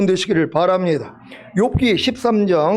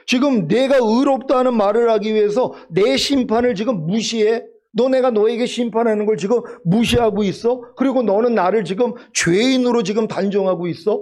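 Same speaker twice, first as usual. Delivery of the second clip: mildly acted divine challenge, in colloquial questions; indignant rebuke; 3 semitones higher than usual. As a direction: confront them as God confronting Job. Acts out God rebuking Job. (하나님이 욥을 꾸짖듯 따져 묻는 말투)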